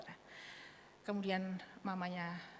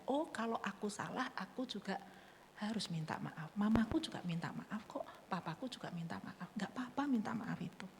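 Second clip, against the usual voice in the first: put-on soft child's thought; 7 dB quieter than usual. Voicing child's lesson softly.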